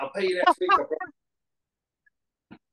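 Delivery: imitating a debtor, rising into a high, drawn-out plea; Frank pleading. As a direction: stretch I promise out high like a begging excuse. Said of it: "That was the roll".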